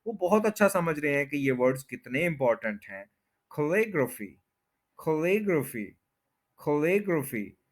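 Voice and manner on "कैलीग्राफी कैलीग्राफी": कैलीग्राफी as kuh-LIG-ruh-fee; native pronunciation. Shown as a demonstration. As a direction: stress LIG and reduce the vowels in कैलीग्राफी. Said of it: "second पे stress है".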